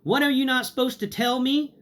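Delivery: imitating a nosy mother; mom's suspicious voice. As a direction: mimic mom overhearing on the phone. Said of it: "my mother's voice going".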